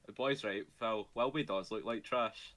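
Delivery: put-on light broad Scottish accent; a hint of a thick Scottish brogue. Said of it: "thick Scotic accent next for Technoblade".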